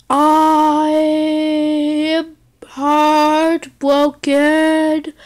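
mock-sincere, very slow; slow heartfelt speech. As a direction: draw out each phrase like a tragic plea.

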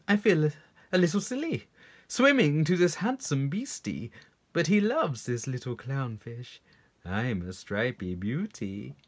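lightly voiced preening little fish; vain clownfish. Clownfish gives in to flattery.

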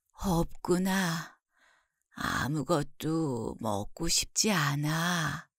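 soft, very slow, weak sick mother; ailing mother. Acted. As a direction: speak softly and slowly, drained by illness. Voices the bedridden mother.

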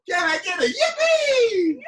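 rally the whole class; loud cheer call. Real, not acted. Calls for a cheer again.

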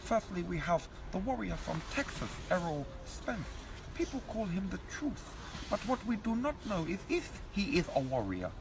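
lightly voiced Eubank holding court; Chris Eubank impression. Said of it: "Chris Livingstone Eubank".

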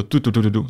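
string of short "tu-du" syllables; imitated staggered thuds. Storyteller showing the instructor's unwanted noise, staggered thud imitation. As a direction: mimic an uneven series of drops. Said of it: "neslyšel takový to".

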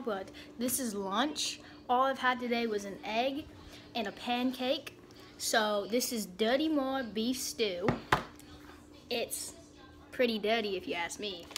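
amateur put-on Australian accent. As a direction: chat away in a rough Aussie accent. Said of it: "talk in an Australian accent".

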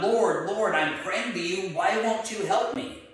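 lightly acted desperate appeal to heaven; crying out. Stranded man to God, crying out in appeal. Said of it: "cries out to God".

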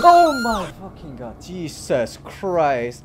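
loud, high cry of shock; real shock, loud, with drawn-out exclamations; startled shout. Real, not acted. Player reacts to a sudden bite in the game, startled shout. Jump scare, gets a shock.

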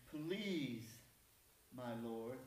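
drawn-out mock politeness; lightly sarcastic courtesy with attitude. Gideon answering the angel with attitude, sarcastic. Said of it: "I'm gonna put some sarcasm in this".

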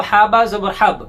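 হা বা জবর named one by one, then joined as হাব; spelling and joining. Shown as a demonstration. Teacher showing how letters join, spelled-out recitation. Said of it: "এই যে আমরা কিন্তু মিলাচ্ছি".

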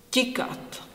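tikat said with a soft, palatal ť; tikat, the t softened toward ch; soft Czech ť demo. Shown as a demonstration. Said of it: "Then we have ť".

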